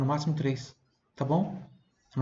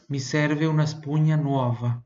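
slow model phrase; slower than usual. Shown as a demonstration.

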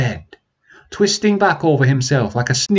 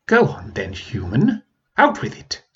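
mocking dragon.

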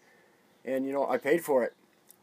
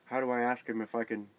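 nervous self-quote; 6 dB louder than usual. Retold or imitated. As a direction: replay your starstruck nerves, laughing it off. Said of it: "standing there with a GoPro going".

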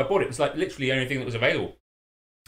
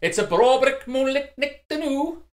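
put-on Scottish accent; 12 semitones higher, 7 dB louder, slower than usual. Mock Scottish phrase after accent talk.

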